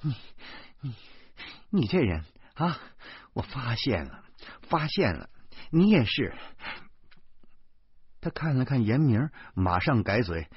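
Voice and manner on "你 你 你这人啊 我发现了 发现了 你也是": stuttering, broken-up indignation; sputter, too angry to find words; wife lost for words in anger; flustered exasperation. Acted. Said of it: "老婆让我气得原地直转".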